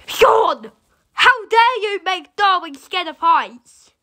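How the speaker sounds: indignant call-out, drawn out slowly; mock scolding. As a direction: pretend to tell Sean off. Scolds Sean over Darwin.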